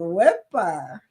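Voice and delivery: lightly done Puerto Rican accent. Shown as a demonstration. Repeating a greeting for viewers, in a Puerto Rican accent. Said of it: "in my Puerto Rican accent".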